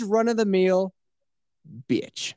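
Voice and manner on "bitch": high, thin exclamation; mock-indignant squeal. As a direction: squeak out the punchline of the rant. Punchline of his mock rant.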